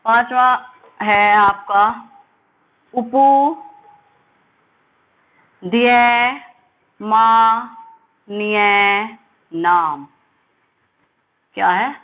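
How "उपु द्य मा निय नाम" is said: उपु द्य मा निय नाम split with long pauses between syllables. Shown as a demonstration. Teacher breaking the sutra into syllables for students. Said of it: "recites the sutra syllable by syllable".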